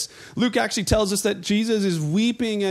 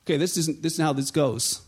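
lower, baffled crowd voice; puzzled crowd; 6 semitones lower than usual. Retold or imitated. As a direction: mutter it like a confused bystander. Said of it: "and they're like".

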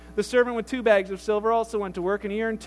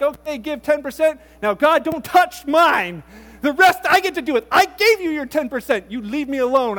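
1 possessive churchgoer; 3 semitones higher, 7 dB louder than usual. Retold or imitated. Selfish churchgoer voiced.

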